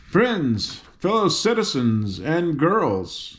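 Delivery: a hint of a girl general's speech; General Ginger addressing troops. General Ginger addresses her army.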